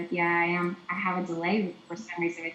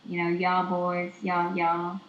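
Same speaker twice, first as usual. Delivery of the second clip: slow Southern y'all; lightly drawled Southern y'all; Southern accent demo; 3 dB louder, slower than usual. Shown as a demonstration. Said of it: "like Southern".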